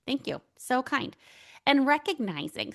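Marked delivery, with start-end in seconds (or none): 0.1-1.2 gracious thanks. Retold or imitated. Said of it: "instead of just being like".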